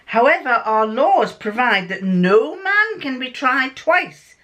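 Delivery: measured, formal detective pronouncement; Sherlock Holmes. Acted. Holmes addressing a freed prisoner, solemn and formal. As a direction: read it out deliberately, as a detective giving judgement. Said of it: "this is home speaking".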